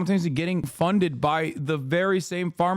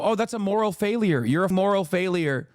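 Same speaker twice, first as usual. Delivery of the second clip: a hint of a scolding moralist, higher; mock stern conservative; 4 semitones higher than usual. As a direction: lecture like a judgmental uncle. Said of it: "Conservatives literally look at addiction and go".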